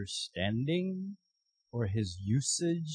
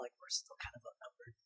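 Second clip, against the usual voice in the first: very high, soft, fast squeak; tiny squeak; 19 dB quieter, faster than usual. Retold or imitated. Gideon squeaking to God that they're outnumbered. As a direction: squeak it out nervously.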